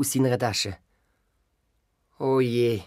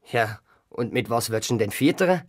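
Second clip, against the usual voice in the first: grandpa; 5 semitones lower than usual. Acted. Grandpa voiced in story.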